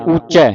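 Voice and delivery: ਉੱਚੈ ending on open "ai". Shown as a demonstration. Teacher spells then models, ਉੱਚੈ ending in ai. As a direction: open out the last vowel of ਉੱਚੈ. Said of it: "ਚੱਚੇ ਦਲਾਵਾਂ".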